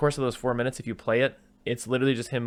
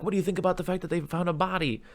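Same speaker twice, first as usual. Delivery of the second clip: higher-pitched mock news interviewer; 8 semitones higher than usual. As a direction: imitate an interviewer posing a question, pitched up. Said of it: "the news is interviewing him".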